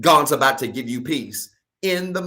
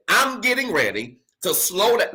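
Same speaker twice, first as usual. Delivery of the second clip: raised, higher preaching voice; full-voiced pulpit declaration; loud preaching; 5 semitones higher than usual. Real, not acted. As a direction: proclaim it loud before pulling back. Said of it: "Let me lower my voice".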